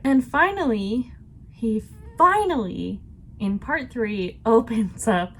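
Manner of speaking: eager and lively, voice lifting; excited book-talk build-up; passionate. Real, not acted. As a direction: rush to the big reveal with excitement. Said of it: "am I talking too passionately?".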